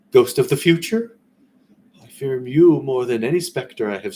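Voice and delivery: put-on an old miser begging the phantom to speak; Scrooge pleading.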